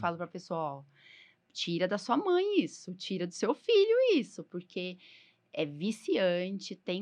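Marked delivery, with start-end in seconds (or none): 0.6-4.4 alerta assustador. Retold or imitated. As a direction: warn them urgently, pitch climbing. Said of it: "eu assusto de verdade". (aviso alarmado à família, voz subindo)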